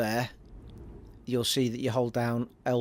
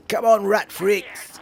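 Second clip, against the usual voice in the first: shouting at enemies; 8 semitones higher, 6 dB louder, slower than usual. Real, not acted. Shouting at enemies while playing.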